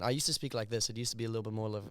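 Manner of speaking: South African English, close to British; easy South African accent with dropped r's. Shown as a demonstration. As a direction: switch into your native South African accent. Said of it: "back to my South African accent".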